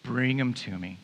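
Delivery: low, halting, grudging order; annoyed, resigned. Acted. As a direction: give in with tired patience. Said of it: "after he displays how annoyed he is".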